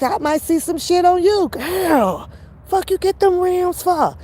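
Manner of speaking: high, excited hype at a friend; hyped-up asking. Pretend. Woman admiring a friend's new rims, hyped-up asking.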